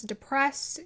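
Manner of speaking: ordinary talk, nothing marked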